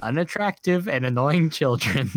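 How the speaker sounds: disgusted British reviewer, hammed up; British accent. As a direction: pronounce each verdict in mock British. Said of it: "read this in a British accent".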